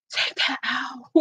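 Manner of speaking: soft, drawn-out aghast plea; gasp, then slowly breathe it out; mock hushed reaction. Reacting to a song with a rapper's verse, hushed and aghast. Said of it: "and I was like".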